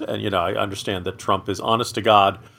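ordinary delivery

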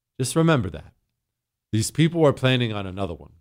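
ordinary talk, nothing marked

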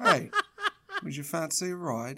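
animated, lilting, sing-song, pitch swinging up and down. Quoting a film star's line from a movie: Michael Caine voice. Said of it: "Michael Caine just shows up and says".

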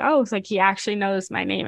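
normal talking voice

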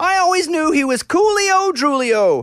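fancy woofing poodle voice, very high and loud. Reading a children's book aloud, doing the dogs' voices, as a woofing poodle. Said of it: "the poodle woofed".

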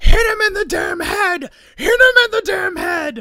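shrill, very high, very loud, frantic screaming. Retelling a wrestling commentator's reaction to a pipe attack: imitating someone yelling frantically. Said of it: "Cole is losing his mind, yelling".

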